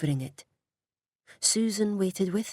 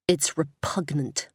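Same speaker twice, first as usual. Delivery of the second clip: put-on American accent; slower than usual. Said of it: "Her accent sounded much more American now".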